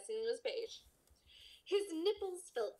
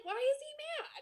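puzzled quote. Retold or imitated. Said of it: "I was like".

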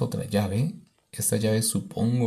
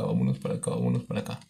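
much lower, playful deep voice; 11 semitones lower, 3 dB quieter, much faster than usual. Pretend. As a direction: drop into a deep goofy voice. Repeats phrase in low voice. (voz grave)

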